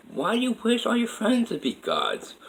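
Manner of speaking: put-on very high, childlike question; little girl's voice. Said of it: "I heard a little girl's voice".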